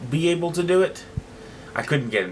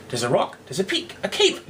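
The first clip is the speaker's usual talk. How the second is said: descriptive; 6 semitones higher than usual. Acted.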